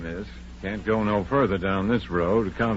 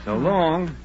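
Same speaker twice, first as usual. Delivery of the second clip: calling out; 10 semitones higher than usual. Acted. Driver calls goodbye after girls.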